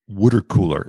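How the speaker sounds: "water cooler" as "wooder cooler", Philly vowels; Philly accent. Shown as a demonstration. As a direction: say "water cooler" like a Philadelphia local. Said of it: "in my Philly accent".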